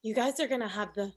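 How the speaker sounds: a hint of a gushing cousin voice. Cousin to the couple, gushing about babies. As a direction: coo about their future babies.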